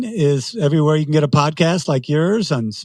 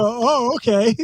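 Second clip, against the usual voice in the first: mock surprise; 9 semitones higher, slower than usual. Mock acceptance.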